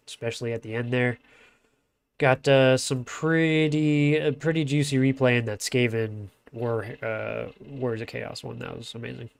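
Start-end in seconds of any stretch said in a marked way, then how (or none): 2.2-9.3 blocked nose, nasal tone; talking with a stuffed nose. Real, not acted. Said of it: "listen to my glorious, uh, nasally voice".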